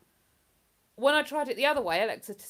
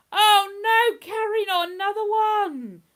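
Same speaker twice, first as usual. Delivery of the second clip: higher, louder cry of dismay; louder, higher sympathetic dismay; dismayed sympathy; 11 semitones higher, 11 dB louder than usual. Real, not acted. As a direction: gasp out sorrow for a viewer's loss. Reacting to viewer's pet death.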